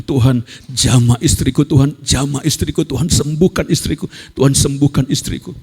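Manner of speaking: re-enacted repeated plea to God; retold pleading prayer. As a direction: press each plea of the prayer, rising slightly. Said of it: "malam-malam saya doa, sembah Tuhan". (doa memohon yang diperagakan)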